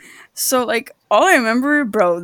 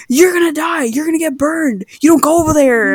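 mom warning; 5 semitones higher than usual. Retold or imitated. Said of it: "She goes".

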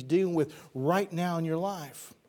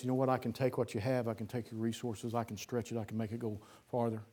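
God's gentle voice; 5 semitones lower, 7 dB quieter, faster than usual. Acted. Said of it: "that's the voice of God".

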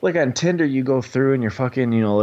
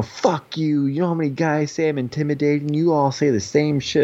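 mock angry retort; 5 semitones higher than usual. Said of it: "there's the fucking roid rage".

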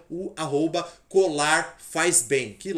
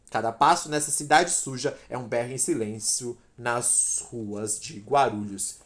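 poem reading. Acted. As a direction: recite it like spoken-word poetry. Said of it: "eu vou ler aqui rapidamente aqui um".

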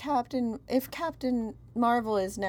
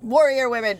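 excited; 5 semitones higher, 10 dB louder than usual. Real, not acted. Excited echo of the theme.

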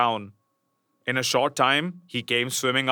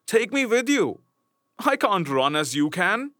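lightly voiced frog, higher at first; pleading frog; 6 semitones higher than usual. Frog begging the princess to take him along, lightly voiced. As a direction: beg her not to leave you behind. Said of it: "said the frog".

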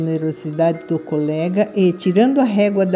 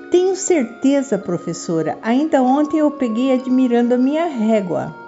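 put-on assertive girl; 4 semitones higher than usual. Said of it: "a garota afirmava segura".

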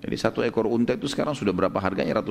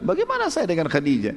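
higher-pitched, mildly disbelieving question; incredulous reply; 5 semitones higher than usual. Retold or imitated. The Prophet asks Nafisa how he could marry Khadijah, incredulous. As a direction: retell it with puzzled disbelief. Acts out astonished reply to proposal.

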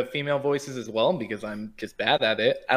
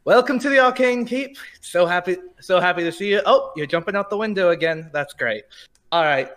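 much higher, louder, bubbly shopkeeper voice; cheery female NPC; 7 semitones higher, 4 dB louder than usual. Acted. Game master voicing a cheery female innkeeper welcoming the players, high and bright. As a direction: greet the party with sugary high delight. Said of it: "female characters".

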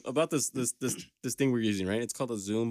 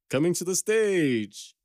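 higher, slow, booming fight intro; ring announcer; 7 semitones higher, 4 dB louder, slower than usual. Shown as a demonstration. Showing the sound pad, a ring announcer intro. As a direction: stretch it like a boxing announcer. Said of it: "say it like this".

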